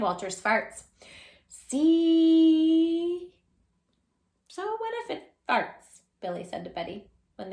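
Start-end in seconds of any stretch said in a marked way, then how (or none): 1.5-6.0 put-on childish defiance. Billy voiced in story.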